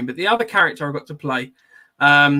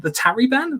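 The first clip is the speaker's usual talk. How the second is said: Belfast accent; 9 semitones higher than usual. Shown as a demonstration. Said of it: "in the Belfast accent".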